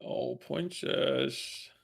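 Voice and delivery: slow, lightly sweet princess voice; drawn-out dainty princess greeting; sweet fairy tale princess. Acted. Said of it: "to hear Elmer Fudd do the old princess voice".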